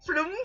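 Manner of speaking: Flum with a short u for film; Singlish film. Shown as a demonstration. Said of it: "so many different Singlish ways".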